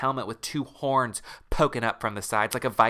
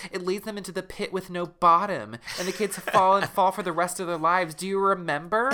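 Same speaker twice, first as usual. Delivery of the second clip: higher Marissa voice; 5 semitones higher than usual. Acted. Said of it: "She says".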